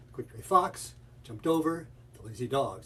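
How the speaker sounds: FOX, OVER and DOG stressed, other syllables held back; stressed and unstressed syllables. Shown as a demonstration. Teacher showing syllable drill, "fox", "over", "dog" stressed over light syllables. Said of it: "I'm doing the unstressed syllables back here".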